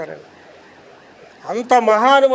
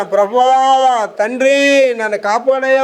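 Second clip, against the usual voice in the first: retold crying plea; 4 semitones higher, 3 dB louder, slower than usual. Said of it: "అని ఏడుస్తున్నానండి".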